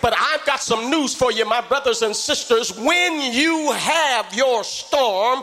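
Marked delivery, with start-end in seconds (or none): 2.7-5.4 full-force preacher working the congregation; preaching at full force. Real, not acted. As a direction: preach it and lift the church.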